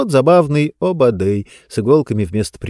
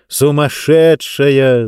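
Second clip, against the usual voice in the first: laughing; 3 semitones higher, 3 dB louder, much slower than usual. Acted. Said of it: "засмеялся отец".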